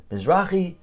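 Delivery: hammed-up angry neighbor shouting; mock yelling. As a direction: retell the neighbor's loud outburst. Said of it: "The guy starts yelling".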